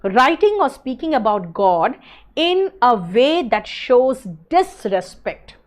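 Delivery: very slow, every word spaced out; unhurried definition read for notes; slow dictation. Shown as a demonstration. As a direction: dictate it slowly so the class can copy. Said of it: "देखो".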